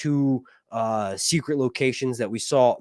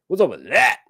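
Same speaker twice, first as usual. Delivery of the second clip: incredulous; 5 semitones higher, 6 dB louder than usual. Real, not acted. Complaining about long sex scene.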